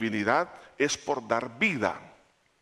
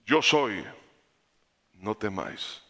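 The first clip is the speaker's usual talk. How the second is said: reassuring Jesus. Retold or imitated. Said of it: "Jesús les habló diciendo".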